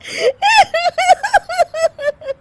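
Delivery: very high, loud burst of laughter; shrieking laugh. Acted. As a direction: laugh out uncontrollably. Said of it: "Anshu फिर से हंसने लगती है". (ज़ोरदार बेकाबू हँसी)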